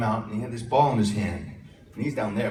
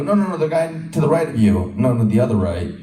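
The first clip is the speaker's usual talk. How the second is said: correcting shout; 6 dB louder than usual. Retold or imitated. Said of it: "And they go".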